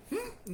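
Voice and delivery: short, high-pitched uncomprehending hum; puzzled hmm. Retold or imitated. Preacher mimicking a congregation lost by his erudition, puzzled hmm. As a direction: imitate a baffled listener's high "hmm". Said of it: "no entendió nada".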